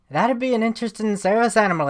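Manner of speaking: put-on accent slipping into Irish. Player answering the bartender about service animals, accent slipping into Irish. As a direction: try Australian, let it drift Irish. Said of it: "I'm going Irish again".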